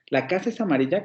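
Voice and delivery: "La casa es amarilla" with a hesitant rise; doubtful. Shown as a demonstration. Teacher shows the sentence said in doubt, hesitant rise. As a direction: say it unsure, tune rising. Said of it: "como una duda".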